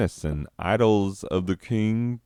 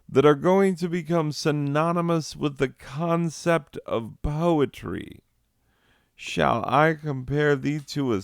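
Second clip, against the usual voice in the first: Shakespeare as smooth flirt; 7 semitones higher than usual.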